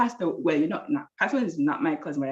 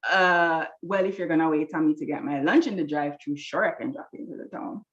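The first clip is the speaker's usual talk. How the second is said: retold grudging attitude, barely raised; snippy. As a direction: agree reluctantly, with a touch of attitude. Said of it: "I'm snippy".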